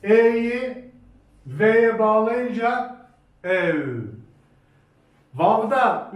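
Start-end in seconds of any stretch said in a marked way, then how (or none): 0.0-3.8 "E'yi V'ye bağlayınca" dragged out, then a short "ev"; slow joining demo. Shown as a demonstration. Teacher to class, slowly joining E and V into "ev". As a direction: stretch the lead-in and close firmly on "ev". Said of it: "Bir tane daha misal veriyorum".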